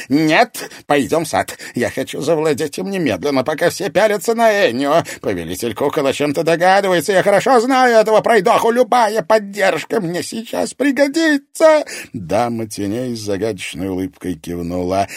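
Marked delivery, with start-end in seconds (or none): 0.1-11.8 much higher, loud, resentful rant; loud, high resentful outburst at the lady of shadows; angry rant. A narrator's reading. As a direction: demand it furiously. Mirror master insists urgently.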